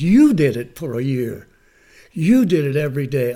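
loud punch on "You"; emphatic credit. Retold or imitated. Teacher hands credit back to student, emphatic. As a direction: hit "You" hard at each start.

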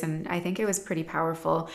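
ordinary talk, nothing marked

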